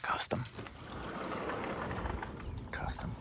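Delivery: soft whispered command; whispering. Real, not acted. Owner to dog while Millie naps, whispering. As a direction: barely voice it, someone is asleep. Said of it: "I'm whispering because Millie's".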